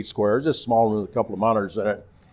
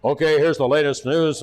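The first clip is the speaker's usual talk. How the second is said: put-on big boy voice; 4 semitones higher than usual. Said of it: "it always used his big boy voice".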